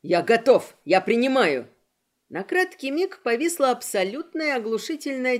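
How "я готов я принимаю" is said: frantic shout. Acted. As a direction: yell the order in panic. Gora frantic under threat.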